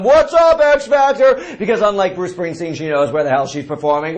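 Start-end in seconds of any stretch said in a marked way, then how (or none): 0.0-1.4 high mock stage yell. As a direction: shout it like a pop star to the crowd. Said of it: "She kept yelling".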